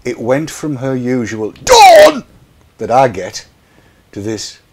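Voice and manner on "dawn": name called out much higher and louder; a high calling out of the name; high sing-song call. Retold or imitated. Daughter imitating mum's usual high call of Dawn. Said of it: "It wasn't a posh voice".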